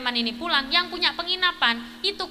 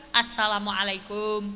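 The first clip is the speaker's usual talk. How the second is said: calling greeting at the door; 7 semitones lower than usual. Retold or imitated.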